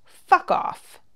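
harsh whispered demonic snarl; possessed voice. Acted. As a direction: spit it out in a possessed rasp. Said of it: "as her voice went back to the lilting Ozark twang".

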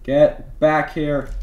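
slow, drawn-out scolding call; mock scolding. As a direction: stretch it like a parent calling a kid back. Chasing player, mock scolding.

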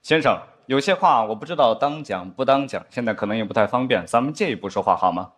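lightly voiced secret-whisper tone of an old spy show; mock grave, low-key conspirator; a hint of a solemn TV spy; spy drama dialogue. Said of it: "他们一般会有一段这样的对话".

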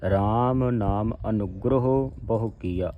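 ਅਨੁਗ੍ਰਹ as "a-nug-gro-ho" within the line; tight pronunciation. Shown as a demonstration. Teacher models the correct line, tight ਅਨੁਗ੍ਰਹ with rounded ending. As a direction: read the verse pressing into the middle of ਅਨੁਗ੍ਰਹ. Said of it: "ਅਧਿਕ ਲਾ ਕੇ ਕੱਸ ਕੇ ਬੋਲਣਾ ਹੈ".

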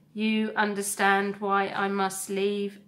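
steady, measured robot voice; calm robot voice. Acted. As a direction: speak like a gentle, resolute robot. Roz to her son.

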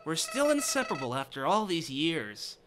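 low, soft sinister murmur; a menacing villain purring quietly; creepy villain voice. Acted. Voicing Chara's dark line, a hint of sinister Joker. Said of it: "I sound like Joker?".

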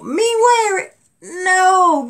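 high, loud, half-crying laugh; cry-laughing at the idea; a wailing laugh of refusal; laughing protest. Real, not acted. Refusing to wear the ring.

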